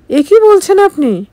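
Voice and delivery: can't believe what she hears; shocked disbelief. Acted. Husband asks wife to leave. (স্বামীর কথায় হতবাক স্ত্রী, ধীরে চমকে ওঠা গলা)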